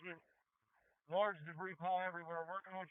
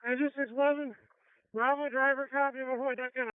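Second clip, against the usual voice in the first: loud urgent radio order, higher; firefighter shouting through mask; 6 semitones higher, 9 dB louder than usual. Real, not acted. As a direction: bark the order over the noise. Chief yelling for deck gun.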